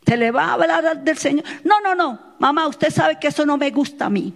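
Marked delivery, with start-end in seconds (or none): 1.7-4.3 higher start, quick imitated refusal; mock protesting child. Child refuses mother's talk of the Lord, imitated quick protest. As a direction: lightly act out a child brushing mother off.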